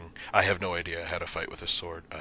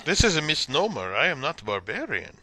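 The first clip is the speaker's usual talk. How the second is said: protesting voice rising high; indignant fighter Akula; 11 semitones higher, 5 dB louder than usual. Acted. Fighter protests the insulting introduction, baffled indignation. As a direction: grow more baffled and put-upon.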